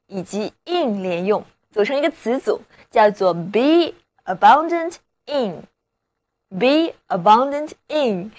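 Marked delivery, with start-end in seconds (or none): 3.3-8.3 slow phrase demo. Shown as a demonstration. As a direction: say the phrase slowly. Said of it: "意思就是". (慢速示范词组)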